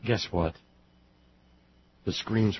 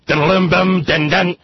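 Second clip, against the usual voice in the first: sarcastic mockery; 6 semitones higher, 6 dB louder than usual. Host mocking with dramatic music sting.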